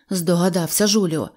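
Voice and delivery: usual speaking voice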